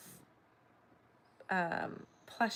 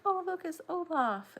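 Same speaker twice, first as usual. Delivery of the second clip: excited shopper; 10 semitones higher than usual. Retold or imitated. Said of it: "they're always like".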